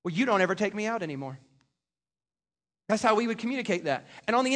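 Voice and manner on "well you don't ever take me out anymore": complaining you statement. Shown as a demonstration. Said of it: "let me give you an example".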